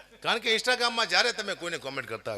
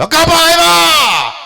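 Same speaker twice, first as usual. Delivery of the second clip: high, slow, ecstatic yell of a starstruck fan; hammed-up fan screaming the star's name; excited fan's shout; 13 semitones higher, 15 dB louder, much slower than usual. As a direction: shout it like a fan who can't believe his idol is here. Excited fan greets him.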